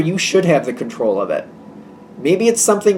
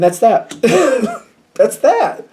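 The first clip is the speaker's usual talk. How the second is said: chuckling; 7 semitones higher, 3 dB louder, slower than usual. Real, not acted. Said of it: "does it seem, seem sarcastic?".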